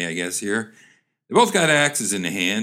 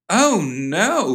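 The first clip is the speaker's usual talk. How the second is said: high, lightly voiced daughter; 7 semitones higher than usual. Daughter reassuring her mother by phone, lightly voiced reply. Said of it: "replied the daughter".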